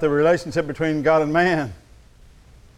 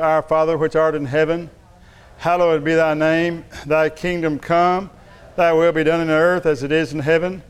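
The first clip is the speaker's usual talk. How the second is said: congregational prayer. Acted. Preacher leading the church through the Lord's Prayer, rhythmic recitation. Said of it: "let's do it together".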